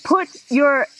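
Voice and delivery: ordinary talk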